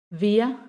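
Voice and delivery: "wir" ending in an open A sound; vocalized final R. Shown as a demonstration. Teacher demonstrating "wir" with final R as A. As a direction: let "wir" glide into A, no R. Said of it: "termina como un sonido de A".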